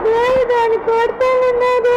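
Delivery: slow whine through tears; tearful complaint. Acted. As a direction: drag it out in a tearful wail. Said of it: "ఎందుకు ఏడుస్తున్నావు". (ఏడుస్తూ సాగదీసి చెప్పడం)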